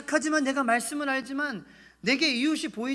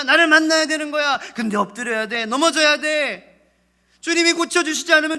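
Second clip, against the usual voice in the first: full-force preaching; 5 semitones higher, 8 dB louder than usual. Acted.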